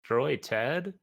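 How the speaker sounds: can't believe the order; startled question. Acted. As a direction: player blurting out in disbelief. Player reacts to order in character.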